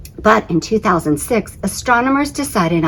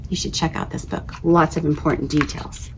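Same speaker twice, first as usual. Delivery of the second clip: soft unvoiced aside; whisper; 7 dB quieter than usual. Real, not acted. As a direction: share a secret tip. Librarian aside to kids.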